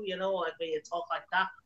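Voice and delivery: Liverpool accent. Speaker lists the english accents they can do, then shows a liverpool accent. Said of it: "I can also do a sort of Liverpool accent too".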